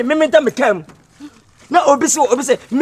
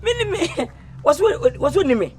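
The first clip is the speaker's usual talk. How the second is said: laughing; 5 semitones higher than usual. Real, not acted. Laughing reply.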